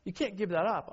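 high, surprised no way from a teammate; mock disbelief. Teammate to speaker quitting hockey, stunned. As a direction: toss it off like a stunned friend. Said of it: "He's like".

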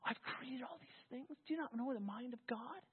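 hushed, gentle rebuke spoken as God. Retold or imitated. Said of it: "it's almost like Isaiah forty when he said".

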